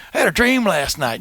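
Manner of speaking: "last night" said with a lisp; lisping impression. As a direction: mimic a lisping storyteller on "I had a dream last night". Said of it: "he had a little bit of a lisp".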